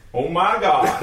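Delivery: high, loud, laughing oh my God; shocked gasp. Retold or imitated. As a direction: recoil at the sight. Southern guy opening the door.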